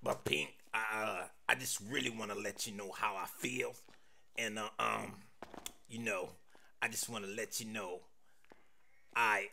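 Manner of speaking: low, soft, halting confession; hesitant mumbling with long gaps and ums; nervous stuttering. Acted. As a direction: stumble and stall, words won't come out. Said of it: "Why was I stuttering?".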